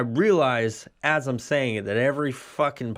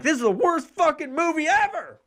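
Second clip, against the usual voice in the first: dog's voice. Retold or imitated. Dog voiced in a story.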